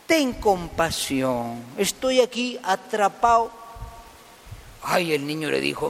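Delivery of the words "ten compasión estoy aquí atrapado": slow, drawn-out mock plea; lightly acted begging, vowels stretched; pleading. Trapped lizard begs the boy for help, mild pleading.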